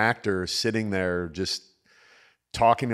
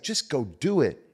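imitating Jason; 4 semitones higher than usual. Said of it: "He's like".

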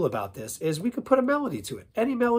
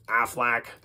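duck squawk; 3 semitones lower than usual. Shown as a demonstration. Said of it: "for the adults in the room".

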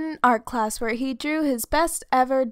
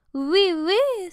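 put-on French accent; 9 semitones higher, 4 dB louder than usual. Poodle answers French class.

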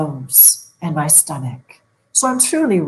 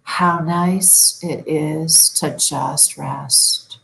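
calm inner voice; much slower than usual. Shown as a demonstration. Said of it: "Say to yourself".

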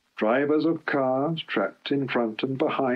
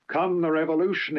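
fierce; 6 semitones higher than usual. Acted. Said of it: "he went on fiercely".

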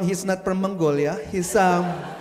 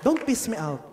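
scolding parent. Acted. Parent scolding the crying child on stage.

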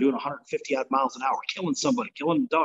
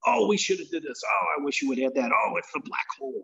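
whiny fan. Retold or imitated. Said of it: "they complain".

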